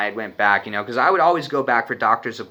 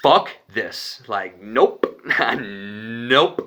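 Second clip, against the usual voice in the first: nervous laughing; much slower than usual. Retold or imitated. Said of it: "So I start laughing".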